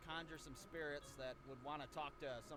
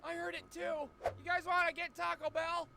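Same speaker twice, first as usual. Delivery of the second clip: higher, louder goofy friend voice; Cody blurts about Taco Bell; lightly voiced clueless drunk; dopey Cody; 11 semitones higher, 7 dB louder than usual. Cody's dumb reply.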